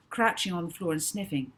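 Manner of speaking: ordinary delivery, nothing marked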